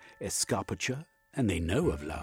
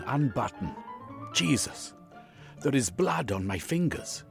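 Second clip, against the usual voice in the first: high, louder panic building to dismay; horrified outburst; 6 semitones higher, 3 dB louder than usual. Acted. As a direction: relive the nightmare, voice raised in alarm. Horrified patient's dream outburst.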